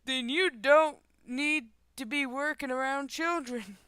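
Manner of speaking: mildly hammed-up outraged dad; indignant father. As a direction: lay down the law as an angry parent. Angry father resumes scolding driver.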